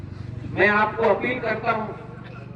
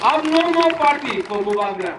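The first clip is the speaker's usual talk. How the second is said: raised, slow call to a crowd; higher-pitched, drawn-out political declaration; rallying call; 4 semitones higher, slower than usual. Real, not acted. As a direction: proclaim it slowly to a rally, pitched up.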